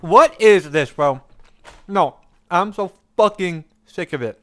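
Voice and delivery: loud, high angry outburst; fed-up shouting. Real, not acted. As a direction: blow up, totally fed up. Streamer fed up, yelling.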